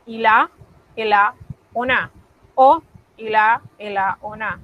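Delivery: ila, ela, ona said run together; fuse the words like native speech; linked il a. Shown as a demonstration. Teacher imitating fast French speech, run together. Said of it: "como pegado".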